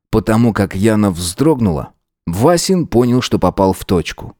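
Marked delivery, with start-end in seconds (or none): none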